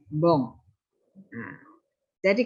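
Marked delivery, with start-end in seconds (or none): 0.1-0.6 bong with the vowel through the nose; nasal French vowel. Shown as a demonstration. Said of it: "B O N itu dibaca sengau". (bong dibaca sengau)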